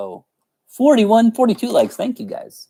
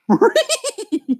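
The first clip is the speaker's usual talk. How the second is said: high cartoon dog laugh; Scooby-Doo. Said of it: "Scooby-Doo".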